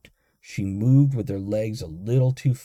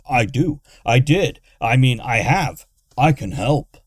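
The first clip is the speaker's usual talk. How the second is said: tripping over words; 8 dB louder than usual. A narrator's reading. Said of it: "The big man tripped over the words".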